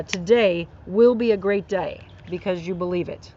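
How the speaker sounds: a Southern lilt slipping out; slight Southern accent. Real, not acted. Host reading encouraging stickers to listeners, slight Southern accent. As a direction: let a little Southern accent creep in. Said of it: "my accent just came out right there".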